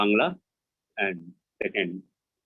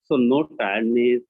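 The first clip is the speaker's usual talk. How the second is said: slow, halting verse reading; deliberate poetry reading, line by line; poem recitation; slower than usual. Acted. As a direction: recite slowly in short phrases with long pauses. Poet reads English version.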